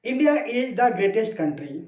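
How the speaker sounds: each word spoken slowly and clearly; slow model sentence. Retold or imitated. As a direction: read the sentence out slowly like a textbook. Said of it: "जैसे किसी व्यक्ति ने कहा".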